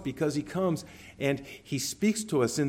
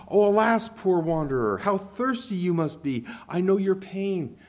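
pitying street vendor calling out, a bit higher; water vendor's call; 5 semitones higher, 4 dB louder than usual. Acted. Preacher voicing the water vendor to weary travelers, pitying call. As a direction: call out like a sympathetic water seller. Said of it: "his voice was something that would say".

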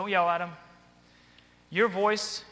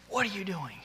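mock condescending question, pitched up on the first word; talking down; 3 semitones higher than usual. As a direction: talk down to a kid, accusingly. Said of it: "I'm talking down to them".

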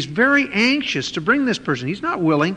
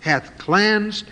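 very slow solemn divine voice; slow, weighty voice of God rebuking Peter; voice from heaven; much slower than usual. Retold or imitated. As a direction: pronounce it slowly like God's command. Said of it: "the voice spoke unto him".

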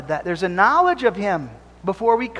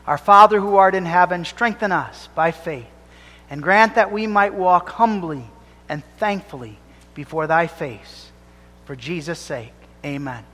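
closing prayer; 3 semitones lower than usual. Acted. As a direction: pray humbly, letting it fall away. Closing prayer after the sermon.

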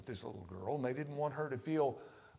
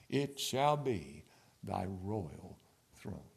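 prayer; 3 dB louder, slower than usual. Real, not acted. Recites hymn prayer.

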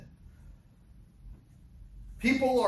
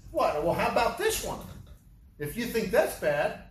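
mock defiant Jesus; 2 semitones higher than usual. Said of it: "That's what he did".

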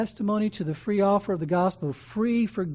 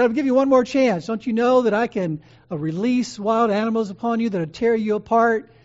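louder, higher menacing challenge; threatening official; 4 semitones higher, 5 dB louder than usual. Retold or imitated. The proconsul threatening the old bishop, louder and menacing. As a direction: lean in with the threat.

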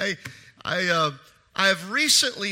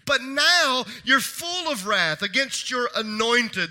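preaching cry; 6 semitones higher, 6 dB louder, slower than usual. Acted. Voicing psalmist's complaint to God.

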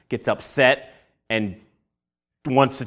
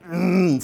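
strained, higher "mm" of pent-up anger; acted growl of held-in fury; angry groan; 5 semitones higher than usual. Shown as a demonstration. Preacher showing being so angry you start shaking, straining. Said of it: "You ever been so angry, you went".

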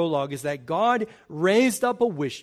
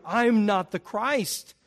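emphatic denial; 6 semitones higher, 7 dB louder than usual. Retold or imitated. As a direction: deny it, then point out loudly. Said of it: "John wants it to be clear".

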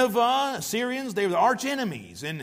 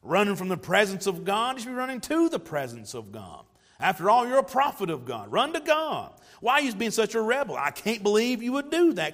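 self-righteous scolding. Retold or imitated. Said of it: "look at him and say".

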